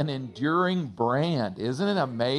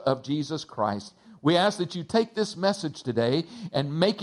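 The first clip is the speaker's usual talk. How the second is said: prayer; 2 semitones lower than usual. Real, not acted. Pastor opens with prayer.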